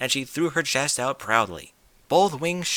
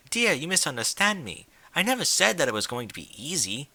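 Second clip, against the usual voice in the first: refined lady; 5 semitones higher than usual. Acted. Rarity explains.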